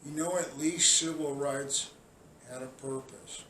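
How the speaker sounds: low, soft, disgusted question; quiet disgust. Real, not acted. Scolding protesters, low and soft.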